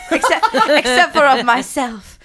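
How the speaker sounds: laughing in character. Acted. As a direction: try to stay in role while laughing. Cracking up in own introduction.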